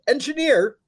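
high-pitched exclamation of disbelief; incredulous repeat. Real, not acted. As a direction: repeat it as if you can't believe it. Repeats job title in disbelief.

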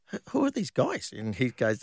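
high, puzzled mock-confused ask; bewildered question. Asking teammate John Monk who these scorers are, high bewildered voice. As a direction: sound baffled about the names.

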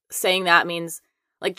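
normal talking voice

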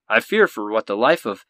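projected news-anchor reading; Anderson Cooper. Acted. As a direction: read the letter like a TV anchorman. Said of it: "let me do my best Anderson Cooper impersonation".

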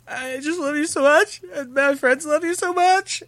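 very high, gushing squeal of adoration; squealing fan. Retold or imitated. Teen telling a singer his friends love her, high squeal. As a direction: let it climb into a fangirl squeal.

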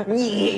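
high, loud "nyeh" noise; comic whiny scurrying cry; goblin scampering squeal. Acted.

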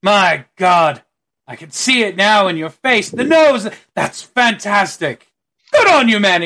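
excited, rising praise; delighted. Acted. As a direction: gush over the likeness. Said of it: "he goes".

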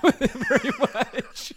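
laughing while talking; words broken by laughter. Real, not acted.

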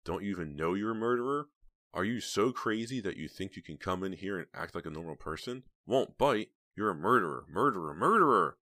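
outraged accusation. A narrator's reading. Heather rages inwardly at the killer, outraged. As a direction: build to a furious outburst.

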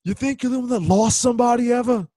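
hammed-up outburst, high and rising; mock indignant movie-villain rant; movie monologue. Podcaster replays a film monologue for co-hosts, indignant.

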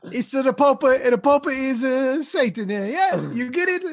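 high silly voice. Acted. Pope reveals he is Satan.

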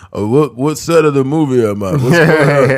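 put-on slurred, lost old boxer voice; confused old Rocky. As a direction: play a punch-drunk old fighter.

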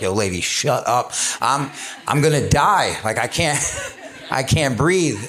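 laughing through a joking gasp of exhaustion; laughing mock complaint. Telling the volunteer lady he's dying, laughing. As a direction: play being winded, cracking up. Retelling gasping during run.

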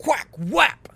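loud, high imitated snap noise again; replayed whack sound. Shown as a demonstration. Replaying the snap sound for viewers, loud mock snap. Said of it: "for those of you who want that sound again".

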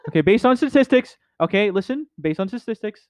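mock lecturing pundit.

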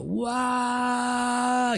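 high, drawn-out wail of someone falling; one sustained high "waaah"; imitated plunge into a void; long falling yell.

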